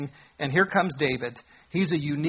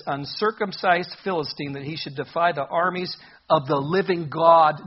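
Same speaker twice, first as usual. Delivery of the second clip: proclaimed; 5 dB louder than usual. Acted. Preacher proclaiming David's bold words.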